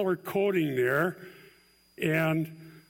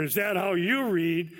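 ironic question; 2 semitones higher than usual. Shown as a demonstration. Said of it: "Ironic question mark".

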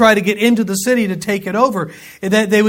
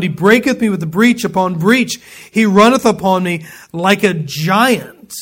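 scripture reading. Acted. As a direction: read Job's complaint with force. Reads scripture aloud.

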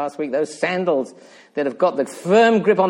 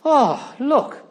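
retold "oh" of sudden realisation, pitched up; higher, as if it just struck him; 7 semitones higher than usual. Preacher voicing the psalmist seeing himself first, sudden realisation. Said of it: "He suddenly says".

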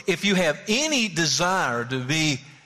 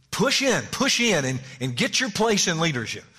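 pushy urging; 4 semitones higher than usual. Acted. Mocks selfish ambition as pushy urging.

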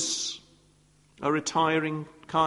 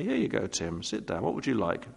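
softer, kindly host offering tea; welcoming host offering tea; 3 semitones higher, 5 dB quieter than usual. Pretend. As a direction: gently put a nervous guest at ease.

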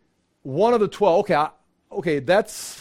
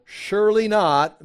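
surely stressed, slow and higher; translation stressed; 5 semitones higher, 3 dB louder, slower than usual. Shown as a demonstration. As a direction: lean on surely, slowly. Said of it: "Mete is translated surely not".

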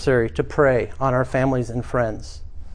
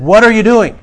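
high, loud outburst; sister-in-law yelling in alarm; imitated shouting; 8 semitones higher, 9 dB louder than usual. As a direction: shout it as an outraged demand. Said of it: "brother's wife shouting".

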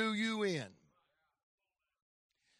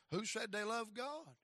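put-on undercut the boy calmly and much softer; quiet father; 12 dB quieter than usual. Father quietly answering his son's protest, much softer.

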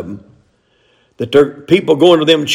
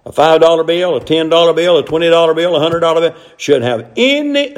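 auctioneer; 3 semitones higher than usual. Acted. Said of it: "I sound like a auctioneer there".

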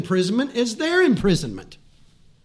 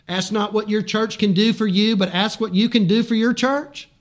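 preached paraphrase; 3 semitones higher, 3 dB louder than usual. Acted. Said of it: "turn that into a scriptural thing".

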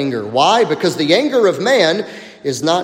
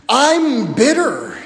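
slow, drawn-out I'm bitter in a mock sulky tone; mock excuse; 4 semitones higher, slower than usual. Preacher voicing a believer's excuse, mock drawn-out. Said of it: "Here's how we say it".

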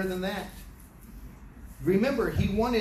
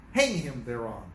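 much lower, grave royal command; stern king's verdict; 8 semitones lower than usual. Acted. King ordering Haman hanged, grave and low. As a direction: pronounce the sentence like a judge.

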